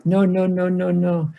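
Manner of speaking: mock furious "no, no"; angry no. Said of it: "Jared aggressively approaches him".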